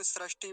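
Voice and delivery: सृष्टि said as "srashti"; सृष्टि with "ra" in place of "ri"; common mispronunciation. Shown as a demonstration. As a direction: put an a after the r in सृष्टि. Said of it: "कुछ लोग क्या बोलते हैं".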